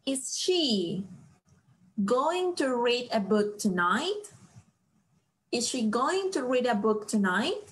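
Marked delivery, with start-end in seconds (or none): 0.0-4.3 slow it down so students can follow; slow reading. Shown as a demonstration. Teacher reads the question slowly to the class. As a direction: read the question slowly, word by word. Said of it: "La pregunta aquí es".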